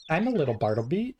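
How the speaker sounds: quick, lilting chirp of a little bird; bird cry singsong. Shown as a demonstration. Asked by chat to say it like Starly's cry, quick chirpy singsong. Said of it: "Say it as it says the cry".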